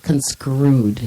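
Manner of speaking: CONSCREWED with a skr sound for str; mispronounced CONSCREWED. Retold or imitated. Correcting the co-host's word, mispronounced CONSCREWED with skr. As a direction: echo the wrong word CONSCREWED, skr in the middle. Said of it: "That's not how you pronounce that".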